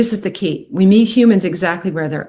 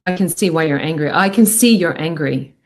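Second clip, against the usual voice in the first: calm validating voice; 4 semitones lower than usual. Shown as a demonstration. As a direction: soothe an angry teenager gently. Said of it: "the best way to calm someone down is just to go".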